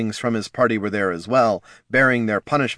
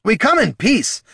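high, raised dwarf appeal; pleading shout; 12 semitones higher, 4 dB louder than usual. Acted. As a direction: shout for a truce over the crowd. Dwarf pleads with hostile chieftain.

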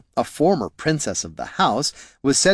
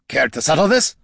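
raised-voice request, higher-pitched; barked request; 5 semitones higher, 3 dB louder than usual. A narrator's reading. Gorm asking Bert to identify the impostor, mild bark. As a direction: call it out as a brisk order. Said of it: "barked Gorm".

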